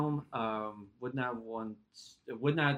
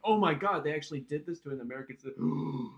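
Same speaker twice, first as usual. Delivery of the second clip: hammed-up scandalized disbelief; mock shock; 3 semitones higher than usual. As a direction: play the appalled public. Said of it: "this is them going like".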